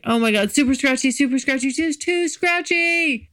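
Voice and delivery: imitating her own past discomfort, building up; mock complaint. Telling listeners about a beard date, rising mock complaint. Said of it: "then it was like".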